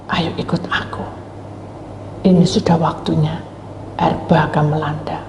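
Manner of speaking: hushed, secret summons; God whispering. Acted. God quietly summoning Noah to the ark, whispered. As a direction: whisper the call like a confided secret.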